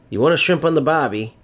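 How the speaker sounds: put-on playful stab at an Australian accent; mock Australian accent. Streamer pretending to speak New Zealand, mock Australian accent. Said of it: "I know that's Australian".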